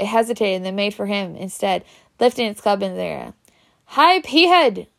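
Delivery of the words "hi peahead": high yell from far away. Ron calls to the troll from the other side of the chamber, yelling. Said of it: "Yelled Ron".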